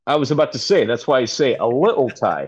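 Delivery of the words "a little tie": a little tie with a dropped t, Cockney style; a little tie said lit-tle, London glottal; Cockney accent. Shown as a demonstration. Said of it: "my bad Cockney accent right there".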